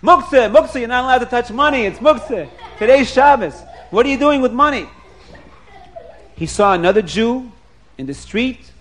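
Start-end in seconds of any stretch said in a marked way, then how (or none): 0.0-4.9 higher, insistent scolding yell; mock outraged shout; retold screaming. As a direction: bark out the prohibition in alarm. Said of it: "He screams".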